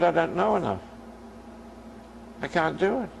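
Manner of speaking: retold tearful protest. Granddaughter telling grandparent she can't face the exam, retold as tearful. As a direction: lightly mimic someone close to tears. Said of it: "And she's crying away".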